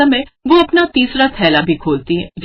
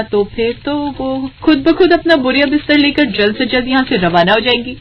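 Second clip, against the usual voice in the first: higher, playful plotting voice; a hint of sly glee, pitched up; mischievous young bahu; 5 semitones higher than usual. Younger bahu pitches her plan to elder sister-in-law, playful.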